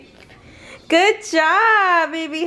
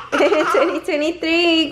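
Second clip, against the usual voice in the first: laughing. Real, not acted. Dating video through laughter.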